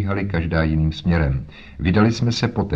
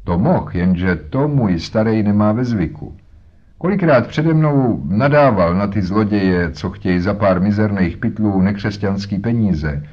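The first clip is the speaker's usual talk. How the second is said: lightly voiced boatman's wife; 3 dB louder than usual. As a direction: talk like a harried mother. Voices Mrs Smith.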